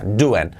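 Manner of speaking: "Doing" as "doo-en"; silent final G. Shown as a demonstration. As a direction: drop the g at the end of "Doing". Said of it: "la G del final prácticamente no se pronuncia".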